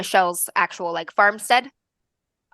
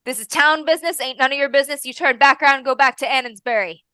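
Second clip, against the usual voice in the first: a hint of angry villagers, pitched up; hostile townsfolk; 4 semitones higher, faster than usual. Townsman tells the constable to leave, mildly hostile. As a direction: warn the outsider off, gruff and defiant.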